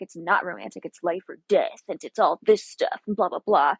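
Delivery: brusque retold man, punching the words; rude, off-putting. Hunter brushing off a woman's romantic idea, rude and off-putting. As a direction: imitate a man being curtly dismissive. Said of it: "being kind of rude and off-putting".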